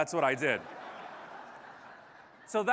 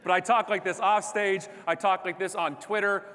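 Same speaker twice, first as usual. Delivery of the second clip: loud, raised, punchy delivery; full-on speaking style; 4 semitones higher, 5 dB louder than usual. Real, not acted. Speaker insisting he is the same off stage, full-on and loud. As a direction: drive each phrase out with big energy. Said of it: "it's exhausting to hang out with me".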